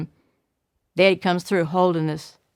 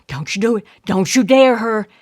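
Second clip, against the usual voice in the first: yelling warning; 3 dB louder than usual. Acted. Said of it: "and Shaq was yelling".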